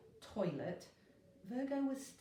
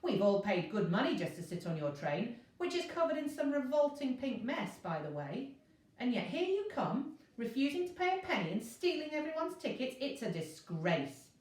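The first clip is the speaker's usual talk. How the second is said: indignant scolding; 5 semitones higher, 4 dB louder than usual. Acted. Virgo scolds inspector.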